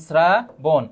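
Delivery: শ্রাবণ split as "sraa... bon"; syllable-by-syllable pronunciation. Shown as a demonstration. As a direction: stretch the first half of শ্রাবণ. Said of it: "উচ্চারণের ক্ষেত্রে".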